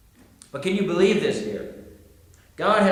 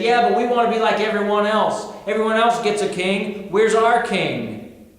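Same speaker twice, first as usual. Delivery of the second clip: pressing, higher-pitched mock protest; insistent demand; 4 semitones higher, 3 dB louder than usual. Israelites demand a king from God, mildly petulant protest. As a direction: object like people who want what everyone has.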